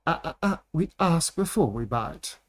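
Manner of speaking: lightly voiced teasing vampire; character line. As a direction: purr the warning playfully. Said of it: "Good one".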